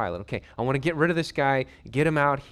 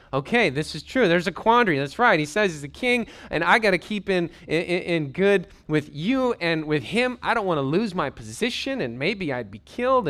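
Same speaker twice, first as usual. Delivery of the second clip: anxious Pilate; 4 semitones higher, 4 dB louder than usual. Acted.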